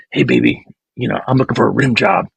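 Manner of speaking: a deep, hammed-up pickup line; seductive come-on. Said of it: "you could say something like".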